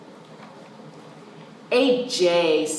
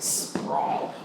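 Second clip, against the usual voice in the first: whispered word; 5 dB quieter than usual. Shown as a demonstration. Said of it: "To sprawl means to spread out".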